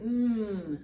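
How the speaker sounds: "mm" as one long hum; letter sound. Shown as a demonstration. Teacher sounding out N for children, "mm" held long. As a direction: hold the N sound in "mm". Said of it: "Sounds like".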